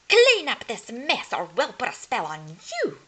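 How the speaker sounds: loud, high mock scream fading down. A narrator's reading. Furious witches threaten Cinder Hazel, loud mock scream. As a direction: yell the threat at her. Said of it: "they screamed".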